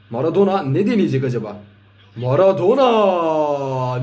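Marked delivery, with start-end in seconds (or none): 2.2-4.0 long drawn-out goal scream; screaming football commentator. Real, not acted. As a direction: stretch the name out in a scream. Goal scored, drawn-out shout.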